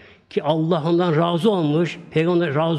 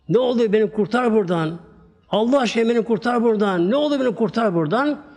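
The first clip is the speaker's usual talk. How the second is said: pleading cry; 5 semitones higher than usual. Retold or imitated. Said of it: "Sana bağırdım".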